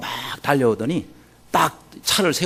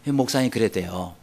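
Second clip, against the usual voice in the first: normal talking voice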